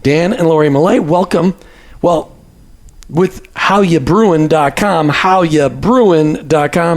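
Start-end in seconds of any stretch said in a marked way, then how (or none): 3.1-7.0 put-on slow, drawn-out Jersey accent. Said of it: "You pull out your Jersey accent there".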